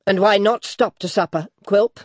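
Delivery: put-on high, loud, indignant old lady; challenging old lady. A narrator's reading. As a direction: challenge him head-on. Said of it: "said the old lady".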